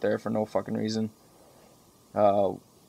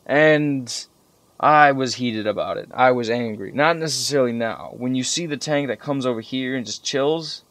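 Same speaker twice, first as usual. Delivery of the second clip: ordinary delivery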